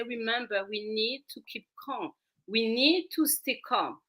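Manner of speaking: put-on soft, calm, reassuring to a child; calm soothing voice. Shown as a demonstration. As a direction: settle a child gently. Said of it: "I will hold your hand and I say".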